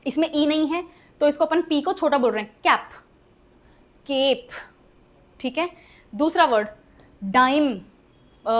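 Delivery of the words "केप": केप with a long "ay"; lengthened vowel. Shown as a demonstration. Teacher contrasts the word with cap, lengthened vowel. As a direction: stretch the middle of केप. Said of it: "pronounce करते हुए बढ़ा देते हैं".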